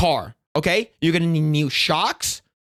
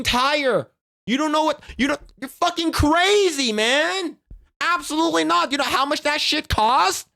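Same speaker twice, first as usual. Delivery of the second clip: a higher-pitched, indignant driver's rant; lightly voiced ranting driver; 4 semitones higher than usual. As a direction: play the fed-up driver, a touch higher.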